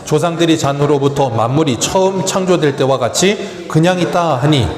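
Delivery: steady Bible reading voice; scripture reading. Acted. Pastor reading Second Peter aloud, steady reading. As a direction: read the verses evenly to the church.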